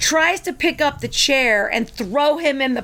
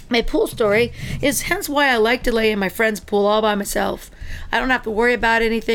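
usual speaking voice

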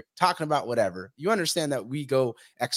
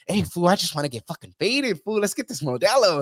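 mocking party girl; 4 semitones higher than usual. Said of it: "acting like that".

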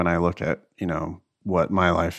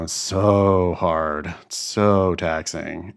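slow, drawn-out mock complaint; mock complaining; much slower than usual. Imitating students complaining about the LSAT, mock whining. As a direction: drag out each "so" like a complaining student. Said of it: "like, really complaining about the L sat".

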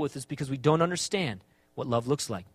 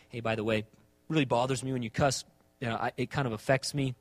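gentle request; 5 semitones lower than usual. Acted. Friend asking a friend not to cuss, gentle request. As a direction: ask it low and without accusation. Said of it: "You're just simply asking".

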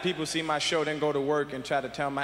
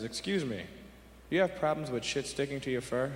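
polite bear; 4 semitones lower, 4 dB quieter than usual. Acted. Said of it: "the bear turns to the rabbit and says".

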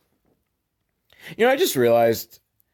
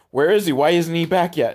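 higher, worried pleading; a wife calling out in worry for her missing husband; frantic wife; 6 semitones higher than usual. Retold or imitated. Wife frets over missing husband, frantic. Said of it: "going crazy".

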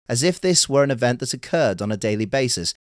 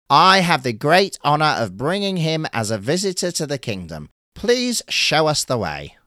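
formal, higher turtle announcing; 5 semitones higher, 3 dB louder than usual. Acted. Turtle presents Urashima to the gatekeeper, formal and higher. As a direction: announce the guest with ceremony.

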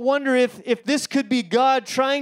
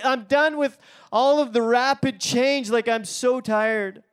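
tired congregant. Retold or imitated. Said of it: "some of you are sitting here going".

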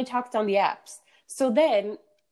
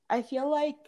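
talking through a yawn; words stretched by a yawn; 8 semitones higher, 4 dB quieter than usual. Real, not acted. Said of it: "I just yawned".

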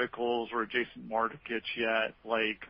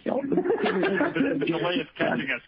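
laughing; 7 semitones higher, 6 dB louder, slower than usual. Real, not acted. Laughing at call delay.

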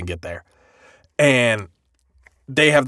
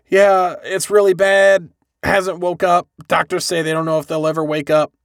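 higher-pitched worried mom, lightly voiced; mildly acted sadness; 5 semitones higher than usual. Mom reporting on her child in hospital, mildly sad. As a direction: play a sad mother giving bad news. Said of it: "kind of, like, real sad".

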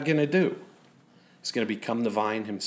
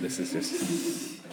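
laughing; 6 semitones lower, 8 dB quieter, much slower than usual. Real, not acted. Preacher breaks into laughter.

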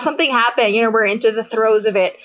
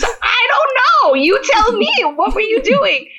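mock boyfriend; 10 semitones higher than usual. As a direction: play him baffled and amused. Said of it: "He goes".

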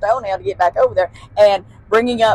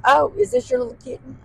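sweet teacher; 12 semitones higher, 4 dB quieter, faster than usual. Retold or imitated. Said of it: "She goes".

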